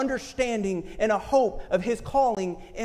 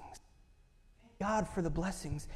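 slow soft repeat; 3 semitones lower, 13 dB quieter, much slower than usual. Real, not acted. Preacher repeating to congregation, slow and soft. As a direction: Thank God slowed right down and softened.

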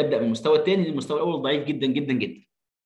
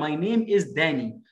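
slow model reading; much slower than usual. Shown as a demonstration. Dictating sentence slowly.

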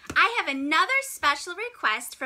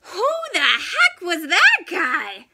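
laughing, louder; 7 dB louder than usual. Acted. Baffled penguin after the walrus leaves, laughing. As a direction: laugh it out in disbelief.

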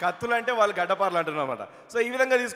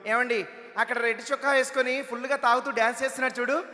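wife's voice; 3 semitones higher than usual. Retold or imitated. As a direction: point him out like a gossiping wife. Wife speaks to husband.

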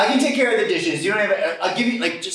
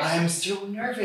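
softer, put-on Italian accent; nervous accent; 7 dB quieter than usual. Husband nervous about his big day, slipping into Italian accent. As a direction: confess nerves in a silly Italian accent. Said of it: "You're not gonna do that accent".

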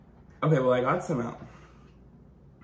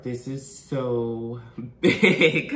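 laughing; 5 dB louder, much slower than usual. Real, not acted. Laughing at the lobster's size.

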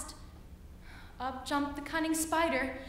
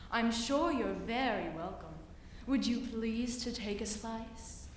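sly spider; 3 semitones lower than usual. Acted. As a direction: purr it low and sweet like a spider. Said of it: "said the cunning spider to the fly".

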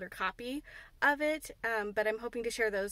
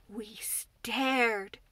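Mary. Acted. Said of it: "said Mary".

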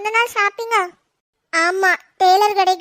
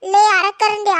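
scolding shout; 4 dB louder than usual. Acted. Scolding a silly cousin.

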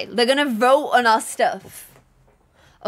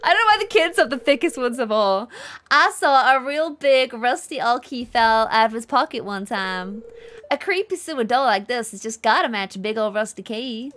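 put-on Southern accent. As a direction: read the villager lines in a thick Southern American accent. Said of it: "It's getting thicker and thicker, the accent".

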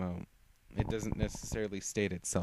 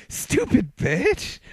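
very high, loud and slow shriek; hysterical scream; 13 dB louder, much slower than usual. Acted. Lucy screaming at the dead foe in hysterical triumph. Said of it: "She started to laugh hysterically".

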